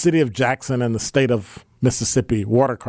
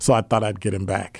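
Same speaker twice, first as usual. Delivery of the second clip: ordinary talk, nothing marked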